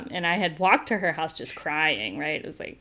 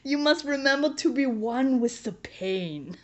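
a hint of a big comforting German tailor; gently soothing, a little higher; lightly voiced motherly tailor; 6 semitones higher than usual. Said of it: "She's like".

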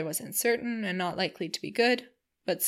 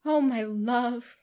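slow, drawn-out "Oh", higher and louder; gushing endearment; 4 semitones higher, 5 dB louder, much slower than usual. Acted. Missus Palmer greeting her husband, a drawn-out fond cry. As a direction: coo at the husband. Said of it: "cried Missus Palmer to her husband".

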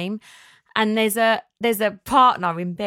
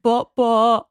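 put-on high, louder toddler Bot, bot; toddler babble; 4 semitones higher, 6 dB louder than usual. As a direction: babble it like a little boy. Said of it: "And then he went".

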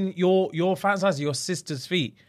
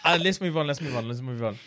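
fading from laughter to calm; laughing then calming. Real, not acted.

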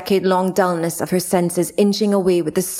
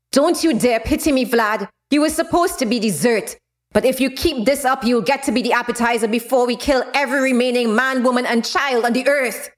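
raised-pitch furious outburst; angry shout; 5 semitones higher than usual. Acted. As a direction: hurl it at him in rage. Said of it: "She screamed at him".

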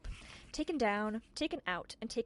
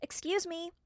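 calling out; 9 semitones higher, slower than usual. Acted. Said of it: "Tiffany shouted".

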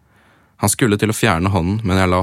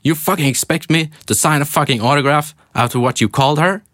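now actually yell it, higher; hammed-up yell; 7 semitones higher than usual. Rereading a rapper's yelled line properly this time, hammed-up yell. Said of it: "Å ja, han skrek".

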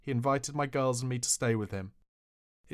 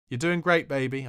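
put-on old lady voice; 5 dB louder than usual. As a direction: croak it like a frail old lady. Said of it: "I croaked in my best old lady voice".

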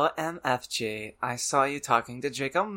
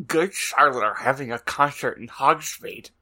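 Draco voice; 4 dB louder than usual. Acted. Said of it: "That, that Draco voice was too much".

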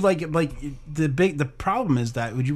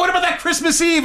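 mock ominous voice; 12 semitones higher than usual. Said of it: "imitating the fart".

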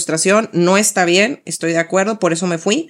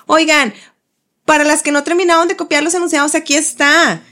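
chirpy mom; 6 semitones higher than usual. Retold or imitated. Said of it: "un mensaje de una de las mamás".

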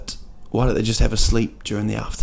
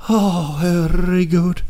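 strained reply; 7 semitones higher, slower than usual. Acted. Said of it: "and you're like".

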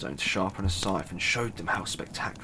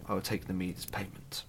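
whisper; 6 dB quieter, faster than usual. Acted. Son accepts the dwarfs' offer.

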